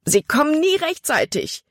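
high, panicked cry; terrified. A narrator's reading. Caleb cries out to Libby, terrified the boat is too far. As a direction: voice full of dread. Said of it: "Calebs Stimme war schreckerfüllt".

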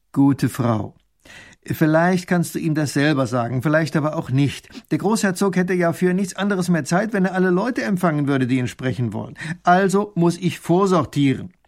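loud, exasperated explaining, rising in pitch; forced patience. A narrator's reading. Minister explains his job to the woman, barely patient. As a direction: explain it with patience about to run out. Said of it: "mit Mühe zur Geduld zwingen".

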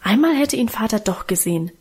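plain reading voice

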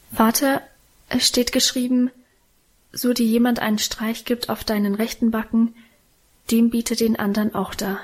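usual speaking voice

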